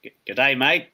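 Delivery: half-hearted Australian greeting; Australian accent. Shown as a demonstration. Host shows co-host a weak Australian accent, lightly put on Australian. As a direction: try a shaky-confidence Australian accent, lightly. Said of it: "do you have an Australian accent".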